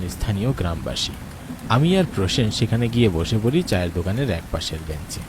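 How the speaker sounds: calm, measured storyteller voice; wistful story narration over music. A narrator's reading. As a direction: set the scene like a radio drama narrator. Narrator describes walk to tea stall.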